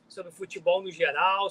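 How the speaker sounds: ordinary talk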